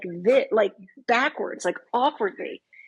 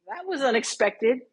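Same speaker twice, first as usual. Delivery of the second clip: deadpan understatement. Shown as a demonstration. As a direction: show the look that goes with a calm, awkward line. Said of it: "goes like this".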